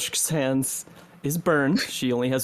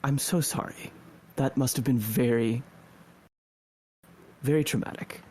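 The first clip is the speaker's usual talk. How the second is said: gentle comfort. Acted. Healer comforting a shaken adventurer, gently reassuring. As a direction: soothe a shaken friend, kindly. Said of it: "grabs your shoulder very gently and says".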